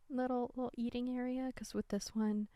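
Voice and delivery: talking with a sore throat. Real, not acted. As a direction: speak through a sore, tight throat. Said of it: "my throat hurts".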